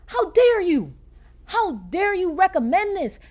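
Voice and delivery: high, loud indignant retort; mock outrage. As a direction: play up the scandalized offense. Retelling outraged reaction to show.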